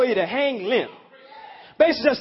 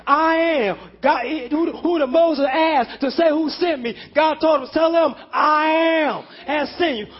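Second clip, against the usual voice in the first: preaching at full force; 3 semitones higher than usual. Acted. Preacher proclaims God's exaltation to the congregation, fervent. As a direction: preach it, build to every climax.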